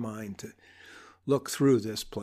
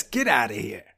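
mock tough-guy dismissal, pitched lower; wise-guy doctor; 4 semitones lower than usual. Wise-guy doctor dismissing a patient, low mock-tough voice. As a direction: send them off like a mobster. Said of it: "wise guy gravitas".

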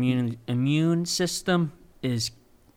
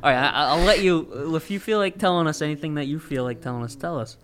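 muffled by a mask; through a face mask; 3 semitones higher, 5 dB louder than usual. Real, not acted. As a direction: speak through a cloth mask. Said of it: "I'm wearing a mask right now".

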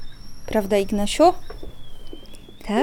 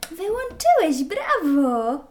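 high bright praise; praising; 7 semitones higher, slower than usual. Real, not acted. Praising toddler.

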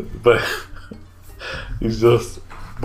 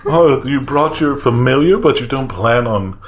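raised, chatty tavern gambler voice; lightly voiced gambler startled into talk; gambler NPC; 7 semitones higher than usual. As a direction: play a friendly betting regular.

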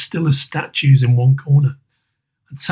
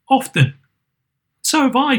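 put-on higher, eager child voices; higher, lightly voiced children; children crying out; 11 semitones higher than usual. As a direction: chime in as the little ones. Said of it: "cried another".

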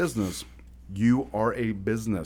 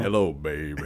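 a deep-voiced singer; 6 semitones lower than usual. Retold or imitated. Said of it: "Then little deep-voiced singer".

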